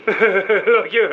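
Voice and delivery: derisive, disbelieving laugh; scornful laugh. Acted. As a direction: laugh in the interrogator's face. Prisoner scoffs at interrogator's threat.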